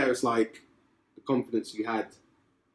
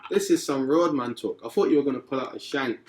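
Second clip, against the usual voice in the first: mock nervous; 5 semitones higher, 5 dB louder than usual. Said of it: "I'm like".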